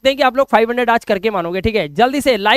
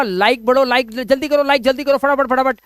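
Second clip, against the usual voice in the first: higher-pitched mock hustling for likes; imitated urging; 4 semitones higher, 3 dB louder than usual. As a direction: act out yourself chivvying the viewers. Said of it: "जैसे ही मैं बोलूंगा".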